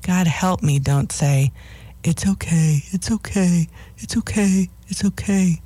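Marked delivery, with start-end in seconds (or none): 2.0-5.6 a hammed-up soothing coo; mock cooing reassurance. Shown as a demonstration. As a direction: coo it like a worried owner comforting the dog. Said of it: "Don't talk in a soothing or worried tone of voice".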